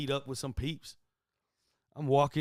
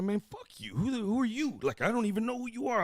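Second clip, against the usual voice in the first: mock defiance; 9 semitones higher than usual. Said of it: "it's like".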